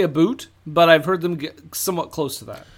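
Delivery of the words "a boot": "a boot" with a long oo; stereotyped Canadian pronunciation. Retold or imitated. Podcaster quoting the Canadian stereotype, exaggerated oo in "a boot". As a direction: say "a boot", vowel like boot. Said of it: "I've never heard them say".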